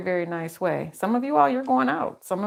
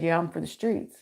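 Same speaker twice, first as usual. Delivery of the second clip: lower, softer, understated quote; dead serious; 3 semitones lower, 4 dB quieter than usual. Retold or imitated. Man earnestly telling her about himself, imitated as dead serious. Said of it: "he was so serious".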